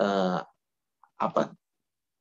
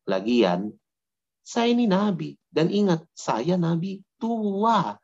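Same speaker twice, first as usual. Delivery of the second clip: put-on smug old prophet; 3 semitones higher, slower than usual. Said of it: "mungkin saja dia akan ngomong begini".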